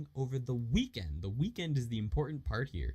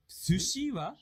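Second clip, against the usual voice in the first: slow, higher-pitched question; slow, awkward reading; 8 semitones higher, slower than usual. Shown as a demonstration. Teacher asking in a sample conversation, slow and higher. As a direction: draw out "Sushi wa" high. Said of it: "that was a little awkward".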